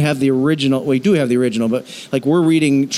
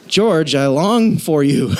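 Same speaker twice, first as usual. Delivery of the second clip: mock creepy longing; slower than usual. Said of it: "just think about what he's saying".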